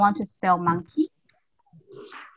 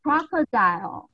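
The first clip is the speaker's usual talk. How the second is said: leader call; 3 semitones higher than usual. Shown as a demonstration. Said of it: "everyone repeat after me".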